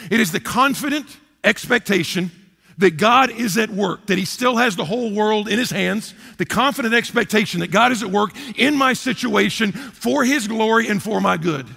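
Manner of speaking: deliberate preacher's restatement; slow emphatic repeat. Shown as a demonstration. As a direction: press the definition home. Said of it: "Let me say it again".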